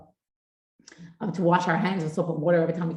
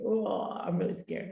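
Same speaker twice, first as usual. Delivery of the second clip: slow, softer mock fright; mock scared; 5 dB quieter, slower than usual. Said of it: "it was really scary".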